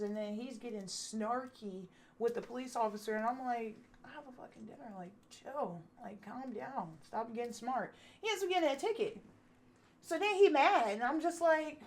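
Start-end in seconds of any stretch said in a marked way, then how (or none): 4.0-7.9 hushed urging. Retold or imitated. Passenger to driver during police stop, hushed urging. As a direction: quietly urge them to cool it. Urging him to calm down discreetly.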